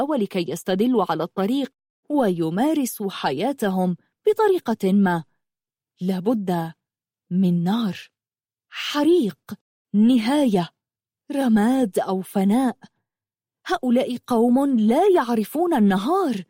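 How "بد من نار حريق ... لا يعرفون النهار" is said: very irritated princess. A narrator's reading. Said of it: "قالت غلاديولوس بعصبية شديدة".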